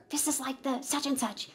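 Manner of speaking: very soft, secretive thought; hushed inner voice; whisper. Acted. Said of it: "Did your thinking voice just whisper".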